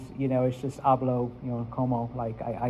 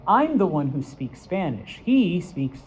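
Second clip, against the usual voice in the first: I'm and He stressed with raised pitch; contrastive stress; 2 semitones higher than usual. Shown as a demonstration. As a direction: set "I'm" against "He". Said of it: "I'm trying to show the contrast".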